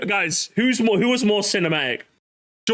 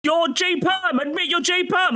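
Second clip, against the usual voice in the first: mock accuser; 8 semitones higher than usual. Mock accusing chat troll.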